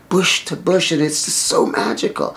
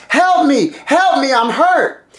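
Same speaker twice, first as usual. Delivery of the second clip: high, loud scream in a stolen voice; screamed cry for help; 11 semitones higher, 6 dB louder than usual. Acted. Demon fakes the husband's voice to lure help, screaming. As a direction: scream out as if mortally hurt. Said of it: "he screams out in".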